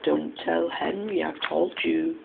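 hushed, confidential undertone; whispered secret. A narrator's reading. Edward passing on a secret about Henry, hushed. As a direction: drop the volume and share a secret. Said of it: "I'll whisper it".

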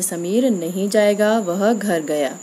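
slow, pause clearly at the comma; slow example read with pauses. Shown as a demonstration. Teacher reads full-stop example to students, slow and paused. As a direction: read it slowly and let the full stop land. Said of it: "जैसे".

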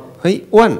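high, loud mock hail; loud teasing call. Calling a friend by a rude nickname, loud teasing shout. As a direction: call out rudely to a mate.

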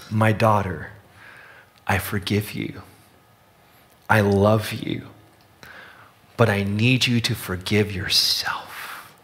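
soft, slow, measured reassurance with long pauses; tender voice from heaven. Retold or imitated. A voice speaks forgiveness to the daughter, tender and unhurried. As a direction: gently imitate a forgiving father's voice. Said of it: "she heard a voice say".

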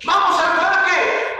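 high, gleeful cheer; hammed-up happy excitement; acted joy. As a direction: call it out like a delighted child. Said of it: "cuando estás alegre".

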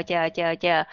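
"chờ" with a plain Vietnamese ch; wrong Vietnamese ch. Shown as a demonstration. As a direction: repeat "chờ" as the wrong model. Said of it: "thì nó không đúng".

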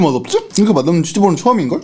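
chewing while talking; speaking between bites; mouth full. Real, not acted. Seen 1: Holds cheese ball at mouth, chewing and biting while speaking.

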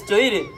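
"Choire" said slowly as cho-ee-reh; "Choire" in three slow parts, cho-EE-reh; mispronounced choire. Shown as a demonstration. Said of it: "let me go over this thing".

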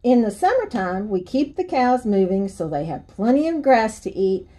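lively storybook reading with swinging pitch; story read to children. Acted. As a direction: read a picture book aloud to kids. Reads children's book aloud.

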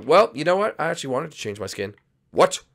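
lightly voiced reverse psychology bluff; fake-cheerful sidekick. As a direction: bluff that you wanted this all along.

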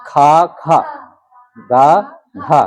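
each consonant with a; syllables with a. Shown as a demonstration. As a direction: read খা, খা, গা, ঘা as slow separate syllables with a long a. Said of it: "তাহলে উচ্চারণ হচ্ছে কি?". (ব্যঞ্জনবর্ণ আ-কার দিয়ে আলাদা করে উচ্চারণ)

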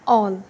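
ऑल said with a rounded aw vowel; teacher modelling the double l rule; aw sound demo. Shown as a demonstration. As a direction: say ऑल with a round open aw. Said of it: "तो हम पढ़ेंगे इसको ऑल".

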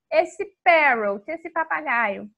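slow, drawn-out naming. Shown as a demonstration. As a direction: stretch it out playfully. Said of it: "tentar imitar agora". (devagar e arrastado)

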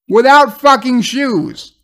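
real exasperation building; real outrage. Real, not acted. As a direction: spell out the absurdity. Speaker outraged at the scene.

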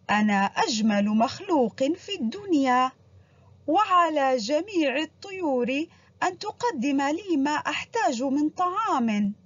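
a hint of a proud, boastful peacock; slow, lightly voiced vain bird. The vain peacock brags to all the birds, lightly voiced. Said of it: "ثم صاح مزهوا".

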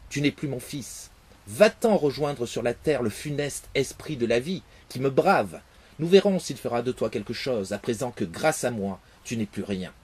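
loud, cold condemnation; implacable king. Acted. The father banishes his son to earth, loud and cold. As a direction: banish him without mercy. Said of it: "le roi, irrité et implacable".

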